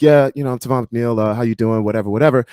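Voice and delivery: slightly lifted, chatty self-introduction; lightly put-on easy greeting voice; put-on approachable voice. Shown as a demonstration. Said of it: "then I just started talking normally".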